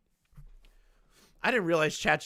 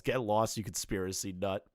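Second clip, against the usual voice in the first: lowered, mildly irritated dismissal; understated snarl; 6 semitones lower, 4 dB quieter than usual. A narrator's reading. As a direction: read a snarl with little force. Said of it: "Spencer snarls".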